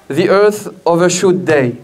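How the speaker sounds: slow English words in a French accent. Real, not acted. Speaker apologising to the audience, slow French-accented English. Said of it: "excusez mon accent en anglais".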